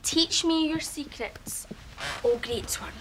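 mock reverence. Pleads like disciple to master.

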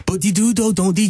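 light Scouse accent; a hint of Liverpool Scouse. Shown as a demonstration. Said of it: "I can do Scouse".

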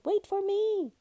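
high, urgent shout to wait; calling out. A narrator's reading. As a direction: call loudly after the one leaving. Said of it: "he called".

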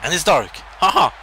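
loud, gleeful taunt; loud laughing gloat; gloating cheer. Real, not acted. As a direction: crow over the win. Gloating over his opponent.

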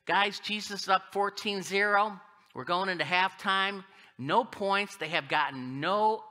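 playful sports-commentary excitement; mock sportscast. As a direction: call the halftime score with punch. Mock halftime score report.

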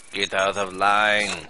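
put-on loud, slow "Get out of line" in the accent; barked order. Inspector barking at a rude traveller, loud. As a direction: order them out, angry. Dismissal after insult.

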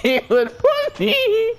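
very high, slow laughing squeal; words squeezed out through real laughter; laughing hard. Real, not acted. Streamer still overcome by his prank, laughing hard. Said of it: "I'm laughing so hard".

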